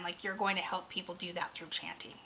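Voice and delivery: soft whispered aside. Real, not acted. Reader telling select viewers about chanting, whispered. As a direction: whisper it like a secret. Confiding a special calling.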